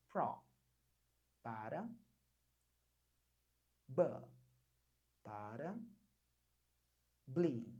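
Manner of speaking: probably broken into syllables with pauses; word split in pieces. Shown as a demonstration. Teacher splits the word in pieces for students, slow syllables. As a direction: say pro, pause, ba, pause, bli. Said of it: "método barra barra".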